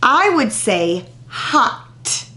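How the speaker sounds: very slow, drawn-out example; slow it down for young learners; deliberate teacher example; slow model. Shown as a demonstration. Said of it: "Here's an example".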